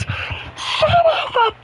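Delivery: a high, drawn-out scream of a curse; the son's curse as his mom hears it from the back room; retold cursing scream. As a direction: belt the curse out, high and slow. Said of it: "all his mom hears in the freaking back room is".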